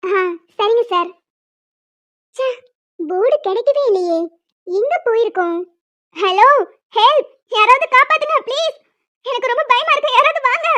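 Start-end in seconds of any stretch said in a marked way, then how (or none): 6.2-10.7 scared, raised calls for help; panicked cries from the lift; frightened calls. Acted. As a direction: call out, afraid and stuck. Trapped woman calling for help.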